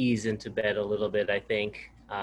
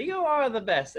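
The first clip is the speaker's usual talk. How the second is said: put-on high child's call; son's shout imitated; 12 semitones higher, slower than usual. Son calling back from bed, high childlike voice. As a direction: call it out like a small boy. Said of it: "And he'll say".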